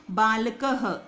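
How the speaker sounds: बालकः ending in an echoed ह; visarga h sound. Shown as a demonstration. Teacher repeating the visarga sound for students. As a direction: finish बालकः with a breathy h. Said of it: "आवाज़ ह आएगी इसकी".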